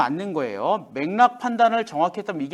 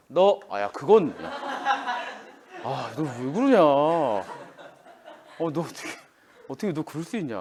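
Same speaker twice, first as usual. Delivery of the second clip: laughing scold; 3 semitones lower than usual. Acted. Teacher laughs acting scolding.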